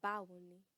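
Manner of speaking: "Báwo ni?" modelled, stress on "Báwo"; casual hello, "Báwo" leaned on; casual Yoruba greeting. Shown as a demonstration. Teacher models a casual hello for classmates. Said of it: "Repeat after me".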